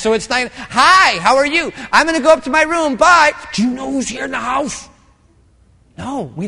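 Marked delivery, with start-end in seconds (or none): 0.5-4.9 put-on child greeting. Child greeting guest on cue.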